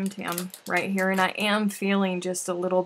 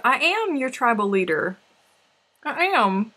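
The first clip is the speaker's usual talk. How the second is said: mock proclamation; 5 semitones higher, 7 dB louder than usual. Boasting mock authority.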